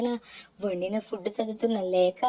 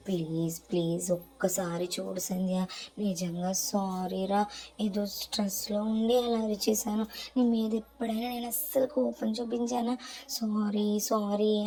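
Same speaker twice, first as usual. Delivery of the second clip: tender plea to his crying sister. Acted. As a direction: coax her gently to forgive you. Begging forgiveness, holding her chin.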